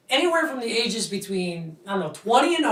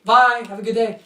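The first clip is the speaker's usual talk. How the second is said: a touch of chipper brush-off; breezy little goodbye, imitating the kid; lightly voiced careless clerk; mock cheery employee; 6 dB louder than usual. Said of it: "That's in his head".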